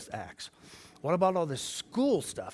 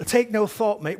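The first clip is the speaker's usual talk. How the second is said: high, loud mock-Australian encouragement; pretend Australian accent; 7 semitones higher, 9 dB louder than usual. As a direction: put on a jokey Australian accent, punchy and loud. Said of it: "Pretend it's, uh, Australian".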